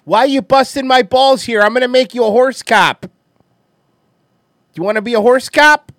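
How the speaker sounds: put-on loud, high New York cop accent; New York cop accent yelled at a cohost; NYPD Blue cop accent. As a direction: bust his balls like a New York detective. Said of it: "I'm sorry I'm doing the accent".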